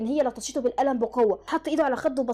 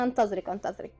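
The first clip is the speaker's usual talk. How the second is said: mocking; 5 semitones lower, 4 dB quieter than usual. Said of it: "ردت لها سوجين بسخرية".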